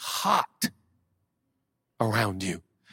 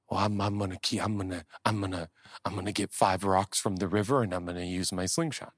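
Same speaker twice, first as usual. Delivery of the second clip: timid reply; 4 semitones lower, 3 dB quieter than usual. Acted. Timid answer like David.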